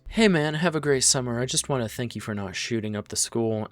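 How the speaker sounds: high, loud cheerful schoolmate voice; chirpy classmate. Retold or imitated. Student saying goodbye to Aaron in class, mock cheerful. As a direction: play the oblivious kid, bright and loud.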